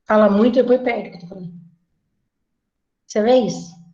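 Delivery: ordinary talk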